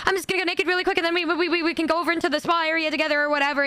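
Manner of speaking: mildly panicked awkward reassurance. Retold or imitated. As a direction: tumble through an embarrassed retold excuse. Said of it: "that was that awkward until that moment".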